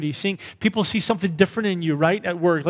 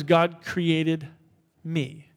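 slow spoken declaration; much slower than usual. Shown as a demonstration. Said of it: "For you to say that".

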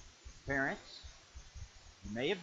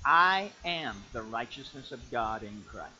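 declaration; 6 semitones lower, 5 dB louder, slower than usual. Shown as a demonstration. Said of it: "I have a statement".

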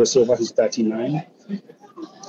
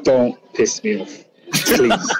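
laughing; 2 semitones higher, much slower than usual. Real, not acted. Laughing, begging co-host Sharon to stop the question. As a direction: laugh through it, half pleading.

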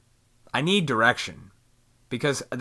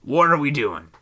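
serious talk; 3 dB louder than usual. Retold or imitated. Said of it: "You gotta have those serious talks like".

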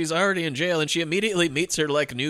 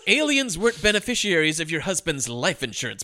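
lawyer's retort; 3 semitones higher than usual. Retold or imitated. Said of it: "this is what the lawyer says".

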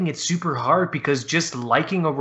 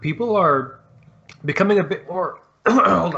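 choking on a bite, throat catching; fighting a tickle in the throat mid-sentence; 4 semitones higher, 4 dB louder than usual. Real, not acted. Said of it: "I'm choking one second here".

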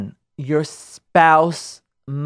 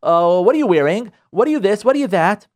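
nagging interrogation; 3 dB louder than usual. Retold or imitated. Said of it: "boom, just go to her".

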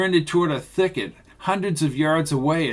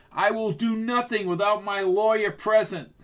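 higher, cold refusal; defiant; 7 semitones higher than usual. Acted. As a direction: refuse with arrogant calm. Cornered villain defiant.

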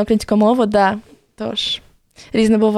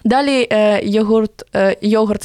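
ordinary talk

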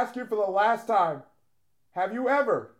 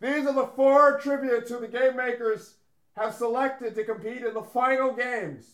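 raised, mildly shouted announcement; yelling announcement; 2 semitones higher than usual. Pretend. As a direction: announce it as if calling across a hall. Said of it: "Why are you yelling?".

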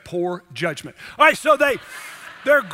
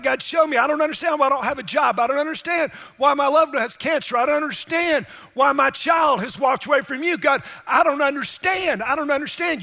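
urgent plea, pitched higher; higher-voiced, insistent plea; pleading prayer; 4 semitones higher than usual. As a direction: cry out to God in confusion. Acts out a pleading prayer to God.

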